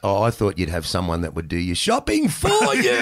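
a half-shouted innocent excuse; loud fan. Retold or imitated. Fan explaining himself.

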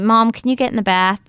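imitating a child's American accent; lightly mimicked American vowels. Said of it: "turned into an American accent".

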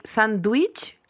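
sandwich slowly, with D and W sounded; sandwich as spelt. Shown as a demonstration. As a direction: say sandwich "SAND-wich". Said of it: "Y tú escribís sandwich".

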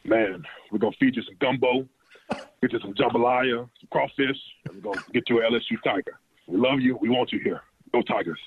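a hint of a big Louisiana head coach recruiting a player; Coach O impression. LSU rookie imitating his old coach's recruiting pitch, lightly done. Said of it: "asking Rashard Lawrence to channel his Coach O".

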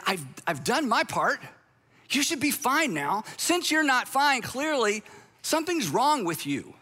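a mild mock of a self-righteous spouse. Pastor translating the apology into its smug meaning.

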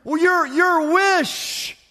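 high-pitched, eager acted pledging; fervent devotion. Rescued man on his knees pledging to serve his saviour, fervent devotion. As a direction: pile up each promise with overflowing gratitude.

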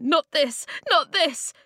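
high, loud, anguished protest; gasped, panicked pleading; horrified gasping. A narrator's reading. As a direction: cry out in rising desperation. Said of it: "gasped Flint".

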